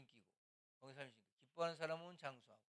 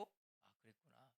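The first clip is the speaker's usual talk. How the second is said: understanding; 3 semitones lower, 16 dB quieter, much slower than usual. Retold or imitated. Understanding reply to a child.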